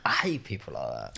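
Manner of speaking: low, hushed whisper; whispered aside. Real, not acted. Listener comments on chatty strangers, whispered aside. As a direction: whisper it under the story.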